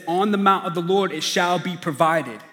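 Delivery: proclaimed verse. Acted. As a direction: proclaim the promise to the crowd.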